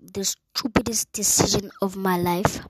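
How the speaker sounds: hushed, secret aside; whispered. Real, not acted. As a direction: whisper it under your breath. Repeats line as whisper.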